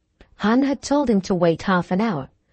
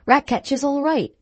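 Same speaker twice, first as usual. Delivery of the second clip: higher-pitched deferential servant statement; reassuring groom; 6 semitones higher than usual. Acted. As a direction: reassure the master respectfully, pitched up. Groom reassures the worried master.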